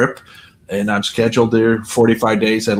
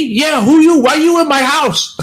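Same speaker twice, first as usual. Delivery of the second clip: high, loud mock Asian lady; high imitated broken English; imitating Asian lady; 13 semitones higher, 3 dB louder than usual. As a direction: pipe up sharply as a startled old lady. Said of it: "She goes".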